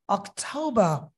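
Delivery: British অক্টোবর with টৌ, no r; British accent. Shown as a demonstration. Teacher compares British and Bangladeshi অক্টোবর. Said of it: "British".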